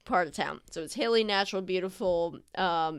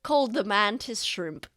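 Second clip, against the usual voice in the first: put-on eager old sailor; 2 semitones higher, 3 dB louder than usual. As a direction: gush about sea creatures like a proud old sailor. GM voices the sailor husband.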